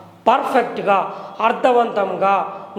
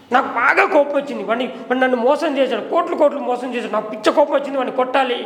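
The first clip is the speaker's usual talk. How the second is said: higher, half-acted anger; mock angry; 5 semitones higher, faster than usual. Shown as a demonstration. Teacher shows a badly matched angry line, half-acted. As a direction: act annoyed at being cheated, a bit higher. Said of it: "అన్నప్పుడు నేను ఇట్లా అన్నాను అనుకో".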